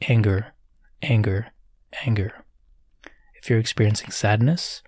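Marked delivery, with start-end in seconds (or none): 0.1-2.4 spaced repetitions, gradually fading softer; silent mental noting. Shown as a demonstration. Meditation guide showing how to note anger inwardly, silent mental noting. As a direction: label it gently, as if only in your mind. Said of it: "silently say in your mind".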